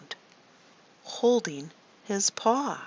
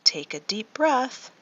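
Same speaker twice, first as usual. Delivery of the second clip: cue to breathe in; 5 semitones higher than usual. Shown as a demonstration. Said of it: "The lion roared again".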